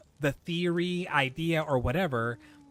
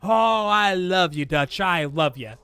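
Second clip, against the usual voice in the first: loud, drawn-out mock declaration of love; mock Molly pleading; 2 semitones higher, 6 dB louder than usual. Retelling Molly begging Dutch, loud hammed-up lovesick plea. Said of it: "and she's like".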